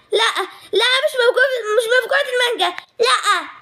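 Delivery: high, whiny half-laughing denial; laughing protest. Acted. Girl denying the glutton nickname, high and laughing. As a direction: protest the nickname while giggling.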